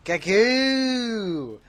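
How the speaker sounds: put-on loud, high Essex "Gagoo!" with a thick Essex accent; Essex greeting. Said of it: "so I can use my own accent here".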